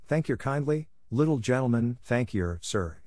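a light imitation of a humble street girl thanking a gentleman; mock beggar girl. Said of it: "She would have said".

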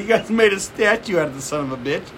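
high-pitched comic indignation; mock outraged rant. Retelling Bill Burr's Philly rant to co-host, mock outrage.

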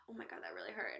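soft, pitiful mock whine; mock whimper. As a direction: whimper it to tease him. Mocking brother's pain.

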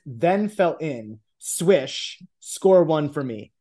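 measured read-aloud of a novel; deliberate storytelling delivery; story narration. A narrator's reading. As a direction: read the passage out like an audiobook. Reads the book's text aloud.

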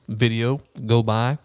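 talking through a mouthful; words round a bite of food; mouth full. Real, not acted. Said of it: "Sorry, I'm eating with a mouthful".

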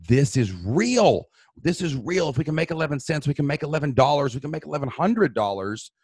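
re-enacted burst of excited belief; retold wild excitement. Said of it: "I sounded insane".

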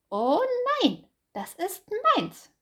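high, loud hare protesting das ist meins; hare's high cry. Acted. Hase protests to Bär, high and loud. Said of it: "rief Hase".

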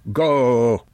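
put-on high, slow, earnest old voice; old man Occam. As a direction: plead with him to believe.

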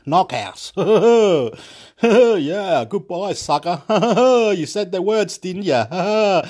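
laughing through the taunt. Real, not acted. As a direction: cackle out a mocking goodbye. Laughing at own tirade.

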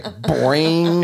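drawn-out cartoon boing; comic springy sound effect; imitated spring noise. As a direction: twang it like a diving board. Imitates waistband snap.

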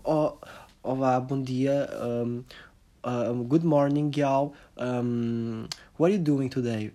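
slow, drawn-out influencer greeting; lightly voiced vapid influencer; parody influencer. Mocking a shallow influencer greeting followers, slow and sugary. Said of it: "falam de merdas que lhes interessam".

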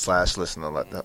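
tipsy, stumbling over words. Real, not acted. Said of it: "I'm getting drunk".

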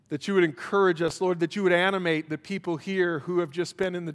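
pastoral prayer. Acted. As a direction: pray tenderly with long pauses. Closing prayer.

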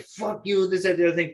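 high, loud imitation of a shouting match; retold yelling; mock quarrel. Imitating the parking lot fight.

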